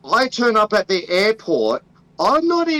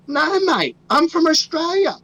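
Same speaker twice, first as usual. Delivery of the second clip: higher, exaggerated Aussie reply; Australian accent; 9 semitones higher than usual. Traveller insists to customs officer, high hammed-up Australian accent. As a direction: protest in a thick Australian accent. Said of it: "I'd be like".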